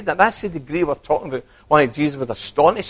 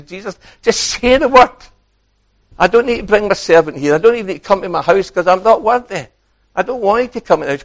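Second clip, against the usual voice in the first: earnest plea; 5 semitones higher, 4 dB louder than usual. Acted. Preacher voices centurion to Jesus.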